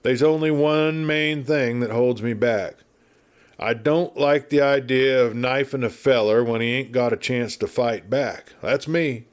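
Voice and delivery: put-on a chatty old westerner spinning yarns; garrulous old marshal. Garrulous marshal rambling at the doctor, lightly voiced.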